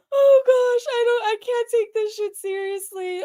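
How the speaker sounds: can't keep a straight face; laughing. Real, not acted. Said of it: "I'm gonna break a rib laughing so hard".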